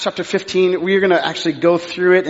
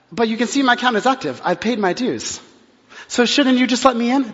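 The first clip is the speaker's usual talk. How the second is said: mock gracious pastor; 5 semitones higher than usual. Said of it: "very pastor way".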